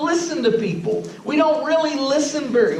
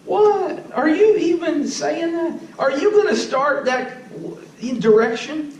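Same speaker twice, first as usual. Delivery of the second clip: incredulous retort; 4 semitones higher, slower than usual. Retold or imitated. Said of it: "making faces at each other like".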